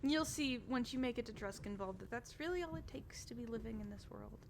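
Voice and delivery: high, bubbly noble lady; cheerful Adela. Acted. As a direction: chirp it up like an eager hostess. Adela explains.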